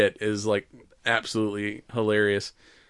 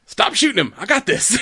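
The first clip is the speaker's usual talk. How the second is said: higher, louder hammed-up shout; mock yell; 10 semitones higher, 5 dB louder than usual. Tallahassee yelling at Nevada to stop shooting, mock shout. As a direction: yell it over the fight, half joking. Retold yelling while wrestling zombie.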